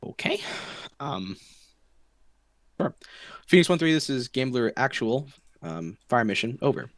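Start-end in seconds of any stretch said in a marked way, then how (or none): 3.5-6.9 steady radio voice calling a strike; calm radio call for fire. Shown as a demonstration. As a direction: read it like a controller on comms. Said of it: "So the full call would sound something like this".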